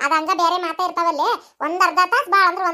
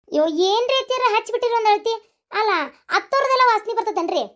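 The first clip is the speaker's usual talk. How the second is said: put-on higher, scolding old mother-in-law; higher-pitched scolding mother-in-law voice; bossy mother-in-law; 5 semitones higher than usual. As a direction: nag her like a village mother-in-law.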